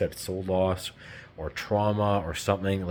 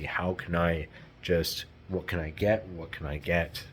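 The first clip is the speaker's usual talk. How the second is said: a hint of greedy narcissist; 3 dB quieter than usual. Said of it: "the narc is about more of the".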